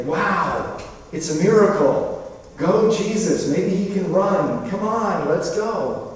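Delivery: hammed-up cheer for Jesus on the water; mock cheering. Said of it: "and say".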